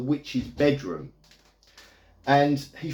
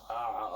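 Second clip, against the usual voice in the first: low, soft choking "ah"; imitated choking groan; 4 semitones lower, 10 dB quieter than usual. Retelling a horror film's choking scene, soft mock choking groan. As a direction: quietly mimic someone being choked. Imitating the woman being choked.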